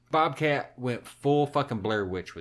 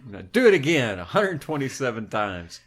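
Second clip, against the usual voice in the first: menacing whisper, do it again; mock director whisper; 6 dB louder than usual. Director ordering the actress to redo, mock whisper. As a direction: hiss the order like a cruel director.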